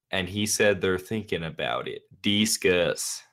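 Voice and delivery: reading a message in a hammed-up Southern American accent. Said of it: "ridiculous Southern American accent that you did".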